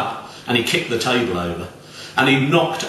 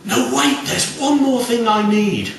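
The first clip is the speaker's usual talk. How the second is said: put-on sudden old lady voice; 11 semitones higher, 3 dB louder than usual. A narrator's reading. Old lady after gasp.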